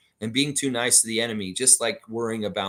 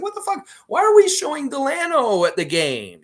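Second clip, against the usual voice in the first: higher, louder indignant outburst; outraged fan; 7 dB louder than usual. Retold or imitated. David complaining at the game about Delano, indignant loud outburst. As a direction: blow up like a fed-up fan at the arena. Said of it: "He's like".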